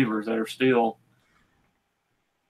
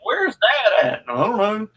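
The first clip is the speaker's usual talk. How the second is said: put-on kids' voices; 10 semitones higher than usual. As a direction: ask it like a puzzled child. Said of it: "My wife and kids would be like".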